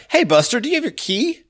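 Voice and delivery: high, mocking voice of a suspicious clerk; gruff modern clerk. A modern clerk stopping the guest, high mocking challenge. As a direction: challenge him like a suspicious doorman.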